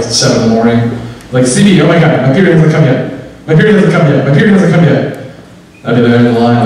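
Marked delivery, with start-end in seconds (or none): 1.5-5.2 put-on mildly frantic girlfriend on the phone. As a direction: repeat it in mock panic. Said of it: "I get a frantic phone call".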